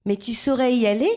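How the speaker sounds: little bird pleading to go along. A narrator's reading. Little bird begs the blackbird, pleading. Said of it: "l'implore Pipioli".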